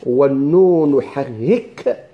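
very slow chanted half-line; slow, drawn recitation of a verse; reciting the verse. Shown as a demonstration. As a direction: intone it slowly like a poem. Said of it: "قال الإمام".

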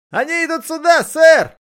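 very high, loud shout. A narrator's reading. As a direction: yell a frantic warning. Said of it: "крикнул один из патрульных". (громкий высокий крик)

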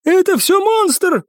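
high, drawn-out frantic outburst; panicked cry. A narrator's reading. Cadet jumps up to blame the monster, panicked. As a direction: blurt it out in a panic.

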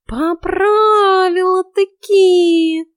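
a delighted cat marvelling at her; admiring cat. A narrator's reading. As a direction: tom cat exclaiming in admiration, high and slow. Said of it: "с восхищением возвестил кот".

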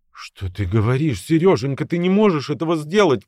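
tearful wife pleads with husband; horrified plea. A narrator's reading. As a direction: beg him in horror. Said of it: "с ужасом".

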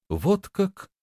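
high, drawn-out reply; drawled. A narrator's reading. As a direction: draw it out, pitched well up. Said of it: "протянула Лиса". (протяжно, высоким голосом)

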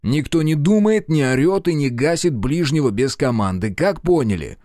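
loud commanding shout. Acted. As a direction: bark orders at the group. Commander yells at the group.

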